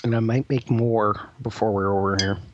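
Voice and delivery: talking between sips of tea; words around a sip of tea; while sipping a drink. Real, not acted. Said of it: "I'm drinking tea".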